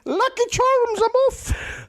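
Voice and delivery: high, far off Irish lilt; bad stage Irish, way up high; Irish accent. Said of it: "I wasn't even close to Irish".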